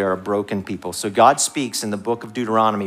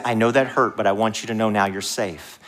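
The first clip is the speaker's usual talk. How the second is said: acted gentle reassurance; understated parental comfort; calm and compassionate; 3 semitones lower than usual. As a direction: reassure a hurt child calmly. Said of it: "you're calm and compassionate".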